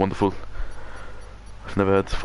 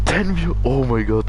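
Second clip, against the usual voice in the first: much higher surprised yelp; excited; 4 semitones higher than usual. Real, not acted. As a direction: caught off guard by the viewers. Viewer count jumps to ten.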